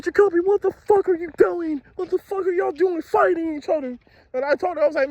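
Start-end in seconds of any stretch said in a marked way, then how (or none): 0.0-4.0 mock scolding teacher.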